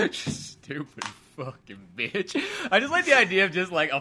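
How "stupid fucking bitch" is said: slow, low Southern mutter; slow Gump accent, sneering under the breath; Forrest Gump drawl. Retold or imitated. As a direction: drag out each insult slowly. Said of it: "Forrest Gump accent".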